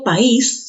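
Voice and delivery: país in two syllables, pa-ÍS; país with a stressed, separate í. Shown as a demonstration. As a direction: put the force on the í of país, apart from the a. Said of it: "se han pronunciado en diferentes sílabas".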